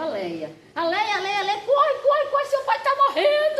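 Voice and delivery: high, urgent calling with a laugh; laughing while acting out a child's frantic cry; frantic retold shout. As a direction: mimic a panicked child yelling for help. Girl shouts father is dying.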